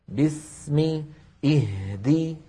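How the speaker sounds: "باسم" and "اهدي" with equally held seen and ha; equal lengths. Shown as a demonstration. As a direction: hold the middle consonant equally in "باسم" and "اهدي". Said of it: "نفس الطول". («باسم، اهدي» بزمن واحد للسين والهاء)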